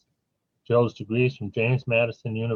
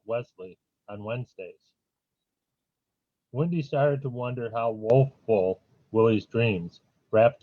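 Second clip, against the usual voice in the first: measured reading of playful alliterative verse; poetry recital with pauses between phrases; poem reading. Acted. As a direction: lift each opening name, then let the line fall. Reads alliterative poem aloud.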